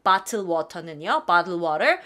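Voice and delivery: "bottle water" said slowly, water with a rolled flap; slow demonstration. Shown as a demonstration. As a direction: model the word slowly for students. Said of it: "이거는 돈을 받아요". (천천히 발음 시범)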